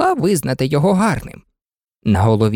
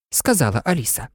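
ordinary delivery

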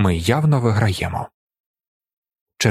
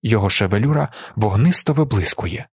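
plain reading voice

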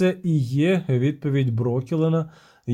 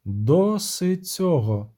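slow, sharp command; a sharp, drawn-out rebuke; 3 semitones higher, much slower than usual. Acted. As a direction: cut her off firmly, word by word. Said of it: "різко сказала Ейтне".

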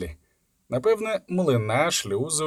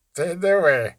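high, loud mocking scoff; mock the boy's threat; 5 semitones higher, 5 dB louder, slower than usual. A narrator's reading. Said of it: "сказав насмішкувато".

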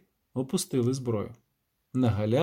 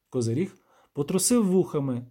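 ordinary delivery

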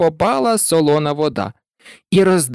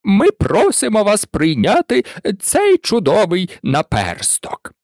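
higher, ceremonial little speech; solemn presentation; 4 semitones higher than usual. A narrator's reading. Turkey presents the thimble to Alice, solemn and formal. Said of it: "урочисто підніс наперсток зі словами".

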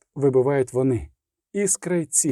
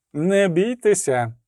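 slow, raised call to calm; loud reassurance; 4 semitones higher, slower than usual. Acted. Giseler calls out to the frightened musicians, loudly. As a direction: announce it slowly for all to hear. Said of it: "голосно сказав Гіселер".

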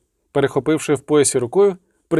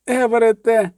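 high-pitched noblewoman's wail; wailed cry; 9 semitones higher, 3 dB louder than usual. A narrator's reading. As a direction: wail the boy's name in alarm. Noblewoman cries out for her boy. (високий зойк шляхтянки)

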